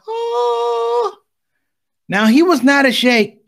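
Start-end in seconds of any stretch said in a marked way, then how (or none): 0.1-1.2 high, sustained heavenly note; angelic "oh". Retold or imitated. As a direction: sing one long, steady, high "oh". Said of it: "you probably hear some beautiful sounds like".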